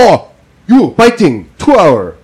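high, light voice of a cheery dentist; high breezy dentist brushing off the patient's pain; mimicking the dentist. Voicing the dentist.

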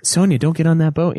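imitating a calm, unhurried warning. Mocking the film hero's useless warning to Sonya, calm. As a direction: warn her with no urgency, mockingly. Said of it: "So calm".

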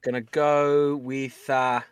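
drawn-out mock British accent; slow, hesitant try at British; put-on British accent, stretching the words. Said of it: "my British accent starts to morph".

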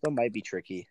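talking around a drink; words muffled by a sip; while sipping a drink. Real, not acted. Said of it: "Sorry, I'm drinking".

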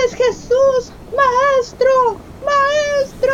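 high, eager calls of recognition; relieved calling out. Acted. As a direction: call out to the teacher with relief. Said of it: "clamaron a él pidiendo ayuda".

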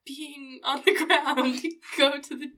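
playful, hammed-up telling-off; mock parental scolding. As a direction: scold a child, half laughing. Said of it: "it's perfect to yell".

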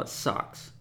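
whispered it sucks; whispered aside. Real, not acted. Vlogger judging the buzzword, whispered aside. Verdict on the jargon.

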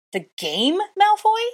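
very high, loud furious shriek. A narrator's reading. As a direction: shriek in disbelief. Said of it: "I shrieked".

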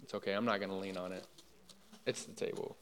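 hushed, half-whispered joke line; mock hushed aside. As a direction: tiptoe it under your breath, playing along. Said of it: "she's just like".

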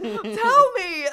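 high, loud retold demand; insistent mock yell. Friend begging the screaming caller for details, mock yell. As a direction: yell it like you must hear the gossip.

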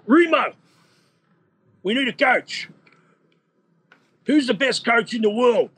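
high, put-on Cypriot Greek accent; excited Cypriot accent, pitched well up; Con's Cypriot accent. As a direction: do the boss in his thick Cypriot accent. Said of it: "the, the Con accent".

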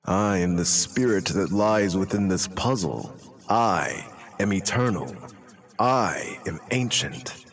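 lightly voiced ancient spirit. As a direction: intone it like an eternal being. Plays ancient puzzle spirit.

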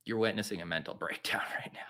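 breathy whisper with a laugh. Real, not acted. Whispered aside after the breakdown.

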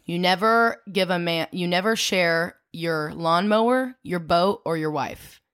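put-on low, slow old-man quote; a touch of grandpa growl; gruff grandpa voice.

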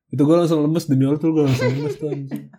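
laughing. Real, not acted. Retelling gross photo, laughing.

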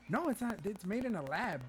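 high, emphatic insistence; mock alarm. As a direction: break shocking news, hammed up. Voices the alarmed friend.

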